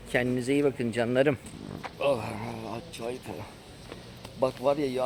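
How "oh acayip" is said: groaning from a full stomach; bloated, heavy sigh; overstuffed groan. Real, not acted. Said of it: "karnımda bir şişlik var".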